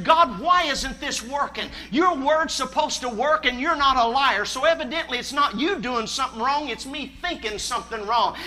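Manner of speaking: pleading prayer. Retold or imitated.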